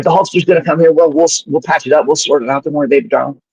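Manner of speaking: high-pitched impression of a reassuring manager; Jimmy Hart. Manager after his phone call promising peace, high-pitched impression.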